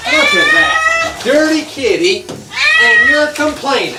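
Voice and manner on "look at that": mock amazement. Real, not acted. Showing dirt on cat.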